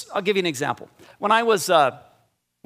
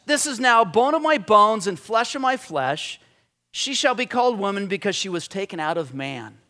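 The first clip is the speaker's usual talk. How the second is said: recited as poetry; 3 semitones higher than usual. Shown as a demonstration. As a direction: read it like a poem. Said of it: "the very first thing out of his mouth is poetry".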